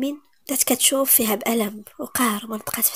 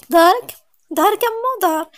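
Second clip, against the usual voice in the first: loud, high sneering echo; mock the very idea it's her house; sarcastic; 9 semitones higher, 7 dB louder than usual. Aunt loudly sneering at the niece claiming the house. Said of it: "سعاد بسخرية".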